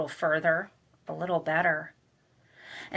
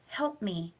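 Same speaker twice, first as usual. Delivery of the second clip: much softer whispered help me; whispered plea; 8 dB quieter than usual. Acted. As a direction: breathe the plea as a faint whisper. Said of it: "her whispered".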